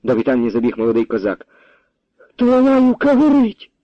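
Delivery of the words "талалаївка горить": high, loud cry of alarm; alarmed shout. A narrator's reading. The young Cossack rushes in to warn of the fire, alarmed shout. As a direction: burst in shouting the news.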